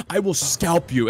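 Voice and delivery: slow, deliberate play threat; mock threat. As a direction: draw out a pretend menace to viewers. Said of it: "I'm, like, yelling at them".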